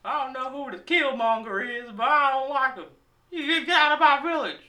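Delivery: high, indignant mock African villager; mock African accent. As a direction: object in a caricatured African accent. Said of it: "didn't know Africans sounded like that".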